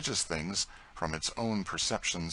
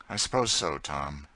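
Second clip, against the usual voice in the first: discontented. Acted. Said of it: "he added rather discontentedly".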